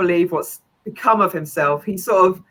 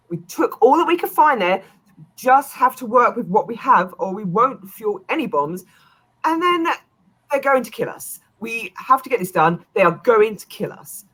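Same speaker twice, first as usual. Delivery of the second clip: Saurian voice; 5 semitones higher than usual. Acted. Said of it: "the Saurian says".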